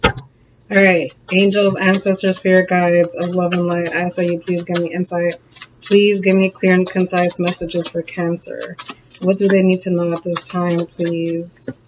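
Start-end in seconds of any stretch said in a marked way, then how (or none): 1.3-11.8 hushed, asking the unseen for insight; quiet reverent prayer before the cards; prayerful invocation. Acted. Invokes spirit guides before reading.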